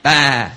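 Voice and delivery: a short playful "bah" like a sheep; light sheep bleat; mock sheep bleat. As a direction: bleat it for a laugh. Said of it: "I'm a sheep".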